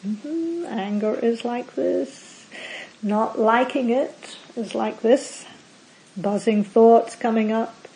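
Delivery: slow, gentle noting of each sensation; calm mindful noting. Shown as a demonstration. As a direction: observe the anger with slow, curious calm. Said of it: "it might sound more like this internally".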